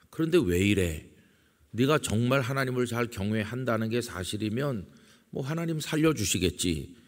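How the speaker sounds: imitated taunt, rising in pitch toward the end; mocking friends. Job's friends challenging the sufferer, lightly acted mockery. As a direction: mildly act out needling doubt. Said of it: "이런 식으로 조롱하잖아요".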